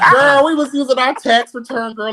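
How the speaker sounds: laughing through the words, pitched high. Real, not acted. Laughing while confessing to friends, high and giggly. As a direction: let the laugh carry the line up high. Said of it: "laughing while telling".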